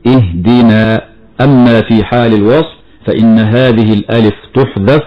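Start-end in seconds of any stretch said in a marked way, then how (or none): 0.1-1.1 slow اهدنا with the final alif held at the stop; pausal form. Shown as a demonstration. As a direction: say اهدنا with the long a kept. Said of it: "فنقول".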